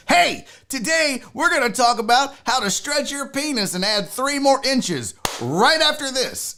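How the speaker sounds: imitating a YouTuber hook; YouTuber intro voice. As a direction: pitch it like a clickbait video. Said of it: "they're like".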